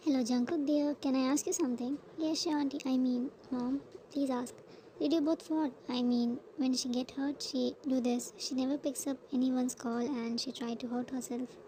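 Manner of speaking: loud, anxious mother on the phone; worried mother. Acted. Mother phoning her son-in-law, loud and anxious. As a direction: press him anxiously as a mother.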